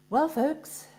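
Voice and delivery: playfully put-on posh English; posh English accent. Announcing a comic poem for fun, posh English accent. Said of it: "in a rather posh English accent".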